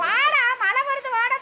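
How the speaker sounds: calling pet in. Real, not acted. Coaxing pet in from rain.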